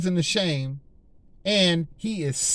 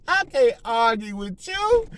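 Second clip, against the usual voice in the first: high, slower, laughing-off dismissal; taunting the devil; 4 semitones higher, slower than usual. Pretend. Preacher dismissing Satan, high mocking taunt. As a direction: shrug him off with a chuckle. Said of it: "That's what we need, we need to be telling the devil".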